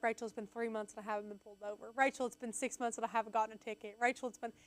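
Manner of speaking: quiet, fast, eager reporting; imitating Tanner's updates. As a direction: rattle off proud updates softly and quickly. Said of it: "He'd be like".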